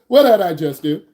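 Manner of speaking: half laughing, half wailing the question; laughing disbelief. Retold or imitated. Instructor retelling the U-Haul speed bump, laughing. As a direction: laugh through the horror of it. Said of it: "I'm like".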